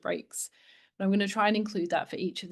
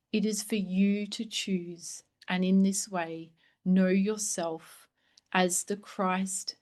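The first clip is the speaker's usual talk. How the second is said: guided meditation; slower than usual. Acted. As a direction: let each phrase land gently, a promise. Reads channeled blessing as meditation.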